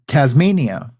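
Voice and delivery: put-on light Australian accent on "Tasmania"; retold Australian accent. Fake Aussie roadie friend answers a girl, lightly Australian. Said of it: "I would do this Australian accent".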